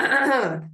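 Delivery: imitating a choked-up throat clearing. Retelling Mark choked up, mock throat clear. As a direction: clear the throat like holding back tears. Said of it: "Mark got so choked up".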